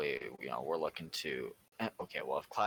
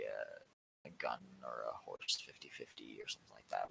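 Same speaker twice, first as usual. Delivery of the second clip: whispering; 7 semitones lower, 7 dB quieter than usual. Real, not acted. Aside about raffle prizes.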